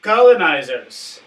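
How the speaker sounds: lightly posh British colonial voice; hint of a colonial Brit, formal and loud; British colonial accent. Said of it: "I will try the British colonial".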